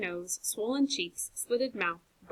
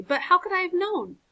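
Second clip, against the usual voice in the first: despairing; 9 semitones higher, 6 dB louder than usual. A narrator's reading. Despairing outburst.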